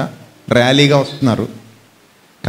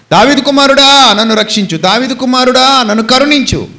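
louder crying out; 6 semitones higher than usual. Retold or imitated. Rebuked blind beggar calling harder to Jesus, shouting. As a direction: raise the cry high over the scolding. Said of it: "ఈసారి ఇంకా గట్టిగా అరవడం మొదలుపెట్టాడు".

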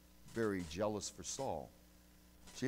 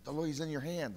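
much louder, higher urging call; urging shout; 6 semitones higher, 9 dB louder than usual. Retold or imitated. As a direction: push him to strike now. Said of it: "one of his men said".

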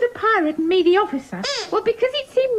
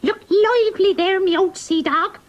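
put-on gruff old fisherman. Sue playing pirate to Sweep.

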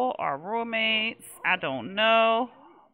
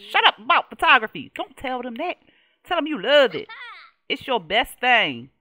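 pleading bossy coaching; 2 semitones higher, 6 dB louder than usual. Real, not acted. Coaching sim on screen.

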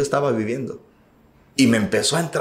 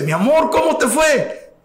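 much higher, gentle wife voice; wife's sweet greeting; 12 semitones higher than usual. Retold or imitated. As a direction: imitate his wife greeting him tenderly. Voicing his wife greeting him.

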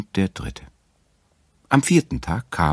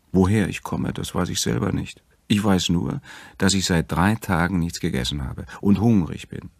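a lightly voiced woman, plaintive; woman answering the bear, mildly plaintive; lost hungry woman; 4 semitones higher, 4 dB louder than usual. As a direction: plead a little, tired and lost.

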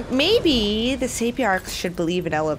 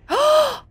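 sharp surprised gasp; 4 dB louder than usual. Real, not acted. Reacting to plot reveal.

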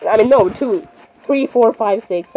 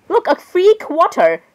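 delighted find; 6 semitones higher, slower than usual. Real, not acted.

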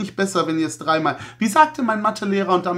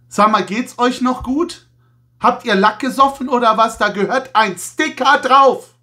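mock indignation; 4 semitones higher, 4 dB louder than usual. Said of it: "ironische, sarkastische Nummer".

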